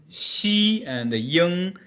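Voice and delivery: Xi and Ying drawn out slowly; teacher breaking a syllable apart; very slow spelling. Shown as a demonstration. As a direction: stretch each part out slowly. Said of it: "How this should pronounce?".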